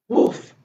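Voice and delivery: one short imitation woof; a single mock bark; puppy bark. Story reader barks as puppy Biscuit.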